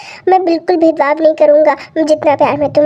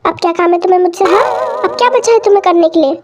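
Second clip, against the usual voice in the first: annoyed; faster than usual. Acted. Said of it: "गुस्सा क्यों हो रही हो जान?".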